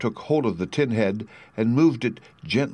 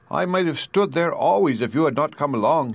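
creaky Tin Woodman; 6 semitones higher than usual. A narrator's reading. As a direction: creak out the plea like a stiff tin man.

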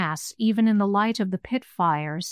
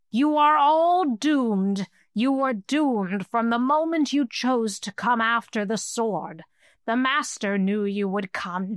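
hissing creature. Acted. Skull-bearer tells the company they are doomed, gloating hiss. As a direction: pronounce their doom like a gloating monster. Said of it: "the voice hissed".

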